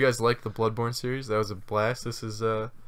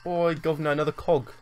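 mock Cockney; 5 semitones higher than usual. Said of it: "gonna be awful fucking accents".

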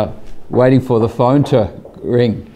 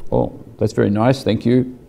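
calm; 4 dB quieter than usual. Retold or imitated. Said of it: "Doctor Warren's very calm".

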